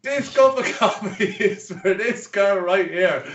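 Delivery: high, drawn-out announcing voice through laughter; mock public announcement. Barman announcing coffee to the whole bar, mock proclamation. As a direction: imitate a barman calling out to all. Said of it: "he announced the cup of coffee in the whole bar".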